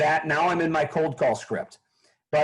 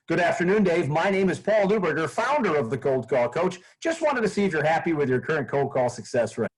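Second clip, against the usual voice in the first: cheesy sales opener. Shown as a demonstration. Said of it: "That's kind of the cheesy way to start".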